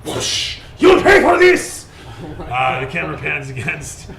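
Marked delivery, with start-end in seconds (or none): 0.0-1.9 high, loud howl of rage; furious anguished shout. Acted. Harinoshi screaming revenge over his fallen friend. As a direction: scream vengeance at the killer.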